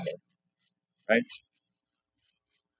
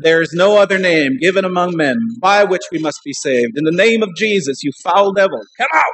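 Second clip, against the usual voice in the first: loud, raised declaration against a demon; commanding exorcism; 6 semitones higher, 5 dB louder than usual. Retold or imitated. Preacher quoting scripture at the devil in the man, forceful command. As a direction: thunder the scripture, building to the order.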